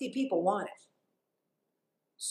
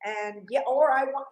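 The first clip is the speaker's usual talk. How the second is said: high, eager entitled grad; lightly voiced naive young graduate; 6 semitones higher than usual. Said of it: "they think".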